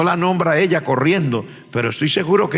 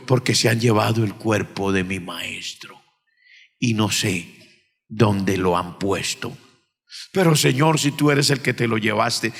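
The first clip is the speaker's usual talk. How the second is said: tearful plea; 5 semitones lower than usual. Acted. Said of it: "Estaba llorando".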